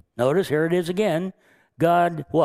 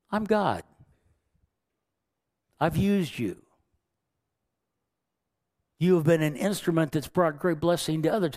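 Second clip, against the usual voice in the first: gentle God. Acted. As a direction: put an arm round him and coax kindly. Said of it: "it's as if God puts his arm around Jonah and says".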